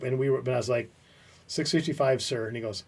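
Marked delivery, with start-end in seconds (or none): 1.5-2.5 crisp, formal, military-style answer; formal dutiful reply. Retold or imitated. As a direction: answer like a soldier to an officer. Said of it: "I never called him sir".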